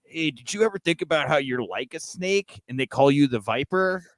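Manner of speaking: lekko udawany wyluzowany koleś; lightly put-on stoner bro musing aloud. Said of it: "that's my R K Bro impression".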